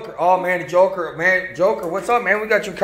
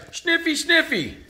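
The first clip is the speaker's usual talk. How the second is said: dog Astro sniffing; 8 semitones higher, 4 dB quieter than usual. Acted. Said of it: "Astro says".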